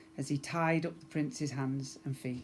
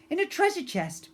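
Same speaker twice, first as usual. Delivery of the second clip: incredulous; 13 semitones higher, 6 dB louder than usual. Acted. Incredulous question.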